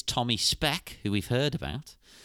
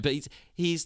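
ordinary talk

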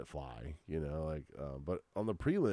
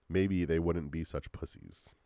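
slow, careful redo; measured, slowed-down correction; deliberate retake; slower than usual. Shown as a demonstration. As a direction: restate it slowly and deliberately. Redoes the flubbed line deliberately.

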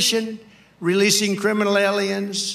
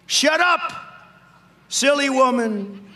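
grinning snake; 5 semitones higher than usual. Acted. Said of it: "said the reptile with a grin".

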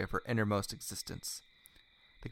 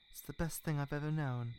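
higher, tender confession; smiling; 6 semitones higher, 4 dB quieter than usual. A narrator's reading. He tells her how much it means, smiling tenderly. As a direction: say it gently, with a smile. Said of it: "he smiled".

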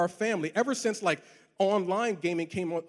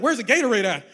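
out of breath; 4 semitones higher, 8 dB louder than usual. Retold or imitated. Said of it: "I'm breathing heavy".

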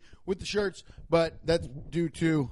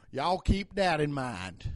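slow Southern drawl; Southern cop voice; 2 semitones lower, slower than usual. Acted. Cop signs off to his men, Southern drawl. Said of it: "I do that Southern voice".

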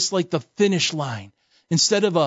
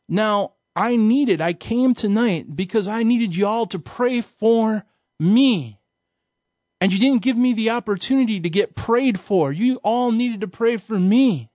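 put-on upset girl pleading; 5 semitones higher than usual. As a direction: plead like a hurt churchgoer who missed her prayer. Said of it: "and she's all upset".

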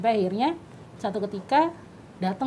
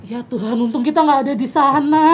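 loud, thankful outburst; relieved exclamation; 7 dB louder than usual. Retold or imitated. Speaker recalling thanking God they were not there, relieved.

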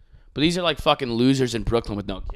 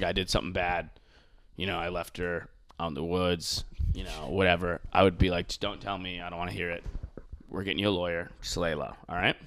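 soft, low conspiratorial tone; hushed confession; 7 semitones lower, 10 dB quieter than usual. Retold or imitated. Imagined father hushing his son, quiet and low. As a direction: keep it quiet like a secret at home.

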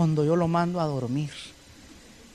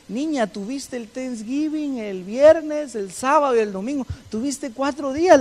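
stern teacher; 4 semitones higher than usual. Retold or imitated. Teacher scolds student.

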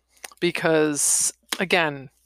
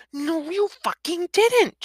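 high, slow, stretched contradiction; furious denial; 13 semitones higher, slower than usual. Acted. Woman slamming the man into wall, furious denial. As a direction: contradict him hard, dragging out each word.

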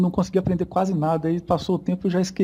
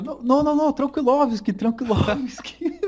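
higher, pleading "não, não, Tranquilovski"; stretched-out mock Russian name, higher; mock Brazilian pleading with Russians; 7 semitones higher than usual. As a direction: playfully beg the Russians to stop fighting. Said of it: "falando com os russos".

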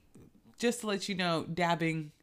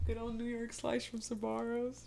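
mock Italian accent; 7 semitones higher, 4 dB quieter than usual.

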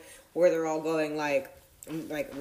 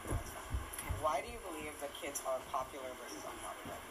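tinny phone recording; recorded on a phone; low quality stream; 12 dB quieter than usual. Real, not acted. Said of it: "Sorry about the bad quality of the audio".

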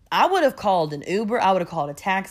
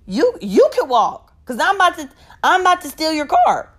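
mock threat; 9 semitones higher, 6 dB louder than usual. Mock threat to steal car.

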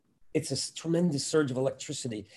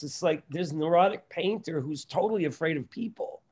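ordinary talk, nothing marked

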